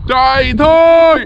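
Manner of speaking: high, slow cry to run; a frightened demon bolting; panicked cry. Acted. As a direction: yelp it as you flee.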